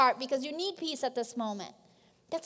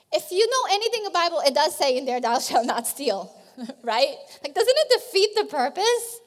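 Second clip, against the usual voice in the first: incredulous; 8 dB louder than usual. Real, not acted. Incredulous joke about stolen Bibles.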